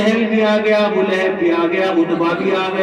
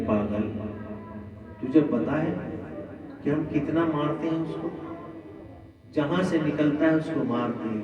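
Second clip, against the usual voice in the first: low, much softer scornful voice; scornful Abu Jahl; 4 semitones lower, 9 dB quieter than usual. Acted. Abu Jahl scoffs at Umayya's fear, low and quiet. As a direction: sneer it quietly and low as a bully.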